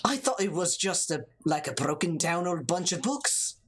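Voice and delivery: steadier second go at Irish; mock-Irish character voice; lyrical Irish accent. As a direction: read it with a lilting Irish accent. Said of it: "You gotta get that lyricalness".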